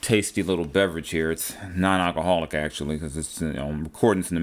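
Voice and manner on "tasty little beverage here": talking between sips; words right after a sip; while sipping a drink. Real, not acted. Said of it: "let me have a sip of my".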